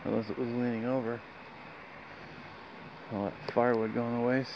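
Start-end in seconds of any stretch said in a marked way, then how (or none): none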